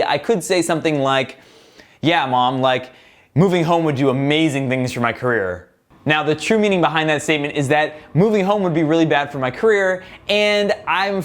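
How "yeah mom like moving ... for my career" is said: lightly sarcastic, slightly lower; a mild mock-sincere jab. Shown as a demonstration. Retorting to his mom about moving home, mildly sarcastic. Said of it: "like, sarcastically".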